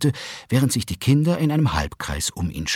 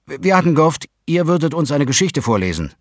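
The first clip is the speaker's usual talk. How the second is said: put-on higher, hopeful boy; child's voice; 8 semitones higher, 6 dB louder, faster than usual. A narrator's reading. Tim asks parents for a story, higher and hopeful. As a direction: ask shyly like a child. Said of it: "sagte Tim".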